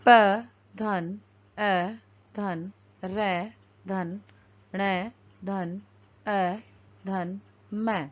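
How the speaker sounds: slow letter-by-letter building of पर्णम; spelling out letters. Shown as a demonstration. Teacher spelling a word for the class, slowly. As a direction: drag out each sound as you join them. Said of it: "वर्णों का संयोजन करके".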